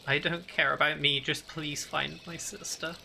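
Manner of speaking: slowing, fading, tearful plea; sniveling plea. Acted.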